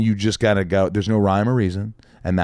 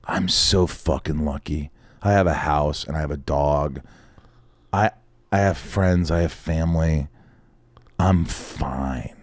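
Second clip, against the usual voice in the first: slow and lowered, sincerely counting blessings; 4 semitones lower, slower than usual. Retold or imitated. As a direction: let it settle low and unhurried. Consoling himself alone with his dog.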